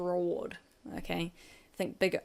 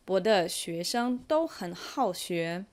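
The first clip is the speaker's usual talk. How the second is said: whispered aside. Acted. Teacher's playful aside.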